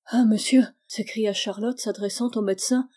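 loud anxious question to the doctor; urgent plea. Acted. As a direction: ask where he is, urgently. Charlotte urgently addresses the doctor.

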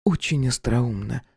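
dry mocking jab from the ex; voiced woman Irka. Female character voice, Irka.

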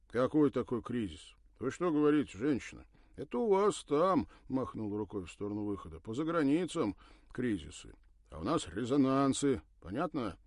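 loud, high scolding waiter; stern, indignant. Acted. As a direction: scold the foreign woman loudly. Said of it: "спросил строго".

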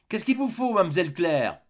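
high call answering from the kitchen; calling back. Acted. Maid calling back to the lady in the next room, high call. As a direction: pitch it up to carry through the door.

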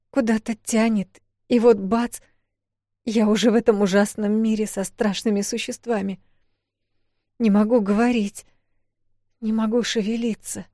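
put-on high, tense voice of a scared girl; frightened young woman. A narrator's reading. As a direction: tell it as the terrified heroine. Heroine describes her terror.

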